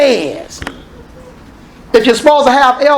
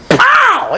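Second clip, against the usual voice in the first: mock pow; 12 semitones higher than usual. Imitating the spanking hit.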